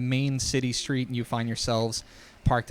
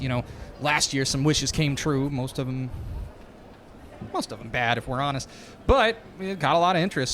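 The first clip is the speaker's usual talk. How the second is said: fake Texas accent. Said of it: "his Texas accent, is bad and fake".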